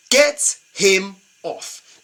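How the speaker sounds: "Get him off" stretched very slow, each word separate; slow, fed-up insistence on "Get him off"; drawn-out demand. Shown as a demonstration.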